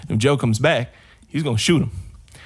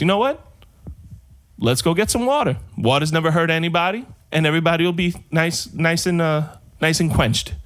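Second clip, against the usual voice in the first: bride voice; 3 semitones higher than usual. Acted.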